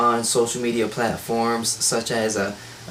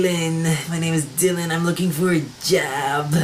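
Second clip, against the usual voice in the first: put-on higher-pitched caricature Jewish accent; hammed-up Jewish stereotype accent; mock Jewish accent; 3 semitones higher than usual. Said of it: "throw in that little Jew accent".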